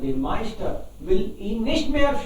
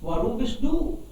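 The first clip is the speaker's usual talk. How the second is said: donkey asking. Acted. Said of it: "Fragt der Esel".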